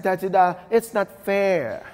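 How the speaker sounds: a light hint of a small child pleading, slowing on the complaint; little kid voice. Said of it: "In my little kid voice".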